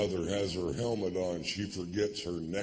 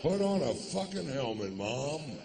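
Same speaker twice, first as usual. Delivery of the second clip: exasperated yell; 9 semitones higher than usual. Retold or imitated. Yelling advice to mother.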